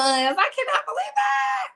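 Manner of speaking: high, slow shout of disbelief. Real, not acted. Host reacting to chat votes, high drawn-out shout.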